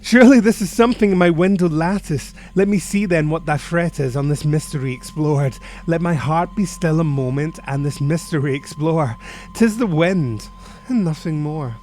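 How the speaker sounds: steady yourself, then dismiss it as the wind; agitated self-reassurance. Acted. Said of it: "said I".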